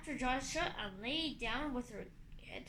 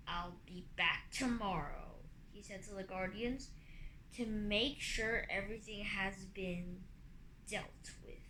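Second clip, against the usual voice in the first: rumbling dragon; 4 semitones lower than usual. Acted. Morosia character voice.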